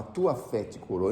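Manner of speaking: soft, slow and tender, a healing blessing; Jesus softly telling the healed it was their faith; gentle Jesus quote. Retold or imitated. Speaker quoting Jesus gently to the listeners. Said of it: "Olha o que ele falava".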